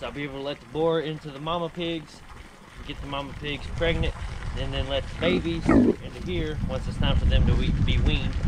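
loud outdoor voice over the wind; shouting over wind. Real, not acted. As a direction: raise your voice against the wind. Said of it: "I'm having to yell over the wind".

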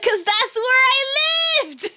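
high, drawn-out laughing protest; retold exasperated wail; exasperated comeback. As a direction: blurt it out slowly, half laughing. Retold exasperated reply about accent.

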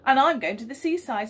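put-on a haughty girl sniffing at her brother; haughtily. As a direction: announce it with her nose in the air. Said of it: "said Melanie haughtily".

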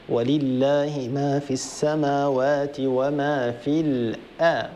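slow measured tajweed recitation; Quran recitation. Shown as a demonstration. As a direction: recite it slowly, letting each letter ring. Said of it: "قراءة الآية تجويدا". (تلاوة مجودة بطيئة)

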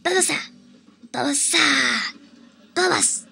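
lightly voiced creature call of its name; Bulbasaur voice. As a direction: call Bulbasaur like the Pokemon, only a little changed. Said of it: "I'll try to do, um, Bulbasaur".

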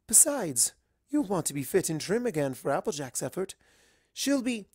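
a hint of a genteel lady; lightly voiced polite unicorn; lightly voiced refined mare. Rarity voiced in story.

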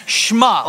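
"shema" slow, as one syllable "shmah", falling at the end; saying shema. Shown as a demonstration. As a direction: teach the word "shema" slowly to the crowd. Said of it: "Everybody say shema".

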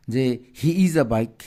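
slow, stressed is in he is a bike; mock wrong reading. Shown as a demonstration. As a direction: read slowly as a wrong example. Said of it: "তখন কি তুমি পড়বা এটা". (ভুল উদাহরণ ধীরে পড়া)

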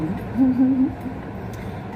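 a quick high laugh; brief amused laugh; short laugh. Real, not acted. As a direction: laugh it off lightly. Laughs while talking about cats.

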